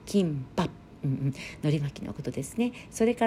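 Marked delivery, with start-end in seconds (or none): 0.1-0.7 キンパ with a closed p at the end; キンパ, lips shut on the last p; final p closed. Shown as a demonstration. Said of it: "ピーで終わるんですね".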